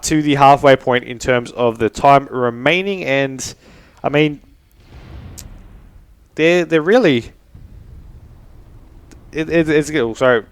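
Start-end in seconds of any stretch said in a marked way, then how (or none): 6.3-9.9 tongue-tied, holding back hiccups; stumbling while fighting off hiccups; suppressing hiccups. Real, not acted. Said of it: "suppress hiccups at the same time".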